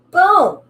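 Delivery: high, loud, punchy boom; emphatic boom. Acted. Teacher driving home a point to the class, punchy high boom. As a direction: land it like a drum hit.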